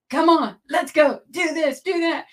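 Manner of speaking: imitating someone barking orders, half in jest; mock yelling. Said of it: "no one yelling at me".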